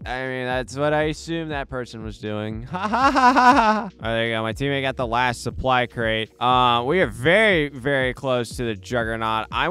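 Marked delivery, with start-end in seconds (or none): 2.7-3.8 loud, high cackle of disbelief; a real laugh at a teammate's blunder; high burst of laughter. Real, not acted.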